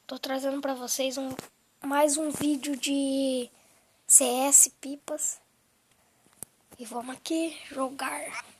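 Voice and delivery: talking with an inflamed, sore throat. Real, not acted. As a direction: speak through a sore, swollen throat. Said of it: "minha garganta tá inflamada".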